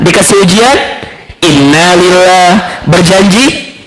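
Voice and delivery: repeated slow phrases. Shown as a demonstration. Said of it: "Coba ulangi".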